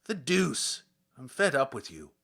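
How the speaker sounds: mild vexed outburst. Acted. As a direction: snap at the pestering policeman. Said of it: "said Lezhin with vexation".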